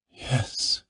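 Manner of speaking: a high, breathless murmur trailing into a hiss. Acted. Woman yielding to her lover, murmured almost as a hiss. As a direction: let the yes fade into a soft hiss. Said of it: "she murmured, the word trailing in an almost hiss".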